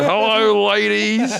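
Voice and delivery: a hint of a cheesy flirt; lightly hammed ladies greeting; playful flirty hello; mock smooth greeting. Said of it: "it would be like".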